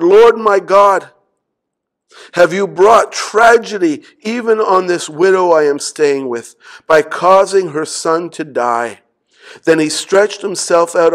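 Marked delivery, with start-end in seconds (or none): 0.0-9.0 the prophet's desperate cry; crying out to God. Acted. Preacher voicing Elijah crying out to God, loud plea.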